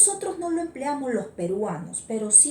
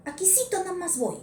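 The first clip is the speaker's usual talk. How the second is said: casual local phrase; 8 semitones higher, faster than usual. Shown as a demonstration. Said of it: "ese aquisito es una variación".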